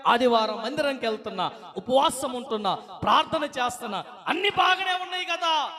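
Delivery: a self-righteous worshipper complaining to God; indignant complaint. Acted. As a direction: demand why God won't listen.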